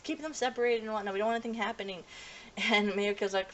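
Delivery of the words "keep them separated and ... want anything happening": high, frantic fussing teacher voice; panicked teacher. Retold or imitated. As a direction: flap like a worried chaperone, pitched way up. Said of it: "the other teacher's freaking out".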